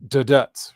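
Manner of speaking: "da, dats" with the second syllable punched; "da, dats" voiced as one rhythmic unit; iambic beat. Shown as a demonstration. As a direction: say "da, dats" as a weak-strong foot. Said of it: "the reason why it's an iambic pentameter".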